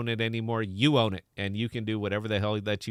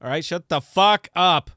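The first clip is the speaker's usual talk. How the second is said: raised, higher, hammed-up telling-off; mock-angry scolding; 5 semitones higher, 7 dB louder than usual. Joker demanding the audience listen to his joke, mock-angry. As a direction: scold them loudly in mock anger, slowing on the curse.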